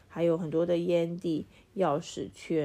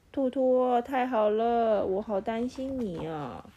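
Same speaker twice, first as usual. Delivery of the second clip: relieved; 5 semitones higher, slower than usual. Acted. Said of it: "大毛说".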